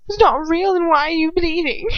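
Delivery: high, loud, far-off sneering taunt; mocking sneer. A narrator's reading. Draco mocking the bleeding captive, sneering and loud. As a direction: throw her words back at her with scorn.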